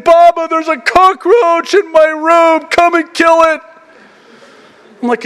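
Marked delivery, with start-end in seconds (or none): 0.0-3.6 imitating scared daughter. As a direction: mimic a frightened child begging her dad. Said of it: "she's crying and trembling".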